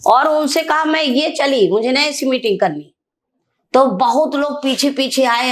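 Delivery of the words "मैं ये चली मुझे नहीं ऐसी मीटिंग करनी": retold angry walkout. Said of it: "हाँ, मुंह पे कहा।".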